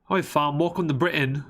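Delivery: badly faked British accent. Map narrator retrying a welcome to Britain, bad British accent. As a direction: have a clumsy go at sounding British. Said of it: "That's not much better".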